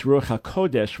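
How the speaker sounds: Ruach HaKodesh with the accent on its first syllable; stress on first syllable. Shown as a demonstration. Host corrects a pet peeve, Ruach HaKodesh stressed on the first syllable. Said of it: "with the accent on the first syllable".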